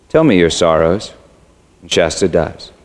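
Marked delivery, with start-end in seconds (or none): 0.1-1.1 low, measured lion's voice; an understated, low invitation; large voice. A narrator's reading. Unseen lion asking the boy for his sorrows, large voice. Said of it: "And the voice says".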